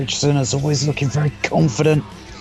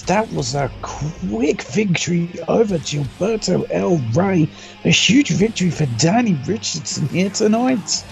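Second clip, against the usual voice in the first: excited commentary; 5 semitones higher than usual. Real, not acted. Calling the winner.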